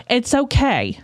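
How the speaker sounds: lightly mocked New Jersey accent. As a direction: imitate a churchgoer with a Jersey accent. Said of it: "I always give them a New Jersey accent".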